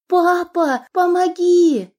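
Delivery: high, loud desperate cry, slowing on помоги; panicked cry for help. Acted. Kidnapped Lana crying to her father for help, panicked. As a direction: scream for your father's help.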